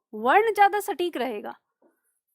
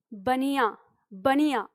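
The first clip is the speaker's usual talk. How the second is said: easy relaxed word; slower than usual. Shown as a demonstration. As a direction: let बनिया roll out effortlessly. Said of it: "एकदम आराम से". (बनिया एकदम आराम से)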